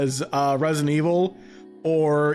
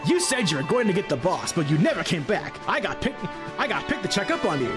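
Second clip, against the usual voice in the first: Jet the Hawk voice. Acted. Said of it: "Jet the Hawk voice for Boyd".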